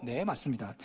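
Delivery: very soft, humble agreement; replying gently to an insulting boss; meek yes. Shown as a demonstration. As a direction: swallow your pride and agree quietly. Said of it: "이러지 말고".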